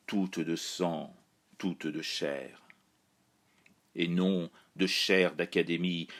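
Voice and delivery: measured, even-toned verse reading with little pitch movement; steady incantatory poetry voice, falling away at stanza ends; poem recitation. Acted. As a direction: recite it solemnly, line by line, pausing between verses. Recites the poem dedicated to France.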